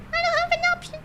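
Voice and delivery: high squeaky little box voice. Acted. Voicing the box.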